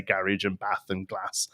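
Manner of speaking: everyday English Midlands short A; plain Midland vowels, short A in bath and glass; Midland accent. Shown as a demonstration. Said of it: "Midland accent".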